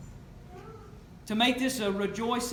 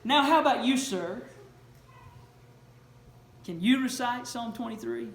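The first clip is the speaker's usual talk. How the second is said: proud actor; 3 dB louder than usual. Retold or imitated. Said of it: "the actor in his proud moment says".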